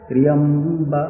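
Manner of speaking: "Triyamba" chanted with ba on the middle tone; middling tone. Shown as a demonstration. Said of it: "The ba is neither top nor below".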